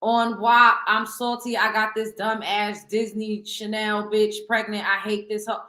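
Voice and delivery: slow, deliberate read-out. Retold or imitated. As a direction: read it slowly, word by word. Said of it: "there we go again".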